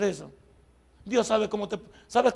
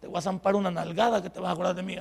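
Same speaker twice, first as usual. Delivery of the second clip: quiet threat in the ear; 4 semitones lower, 5 dB quieter than usual. Retold or imitated. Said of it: "se le acerca el oído y le dice".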